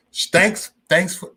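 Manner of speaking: stumbling restart on "Thanks"; garbled pronunciation. Real, not acted. Streamer retries his thanks to Jose, tongue-tied. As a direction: slur the start of "Thanks" and break off. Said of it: "I sound like Buckwheat now".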